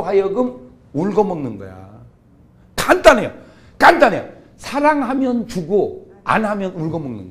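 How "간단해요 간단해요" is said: emphatic call. Real, not acted. Emphatic preaching repetition.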